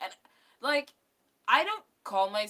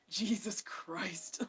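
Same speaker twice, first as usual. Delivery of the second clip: exasperated; 6 dB quieter, much slower than usual. Real, not acted. Exasperated reaction to a singer's tweet.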